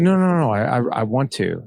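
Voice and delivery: a father earnestly protesting; eager insistence. Retold or imitated. Father insisting to his son that he wants to meet, eager and loud.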